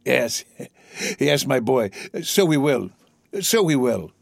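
lightly voiced old man; fond old father. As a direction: answer the son fondly, unhurried. Old father answers his son.

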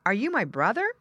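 put-on hopeful child. Child asks squirrel.

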